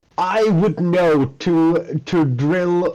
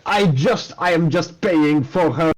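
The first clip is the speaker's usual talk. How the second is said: put-on German accent; faster than usual. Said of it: "I'm trying to do a German, I, a German accent".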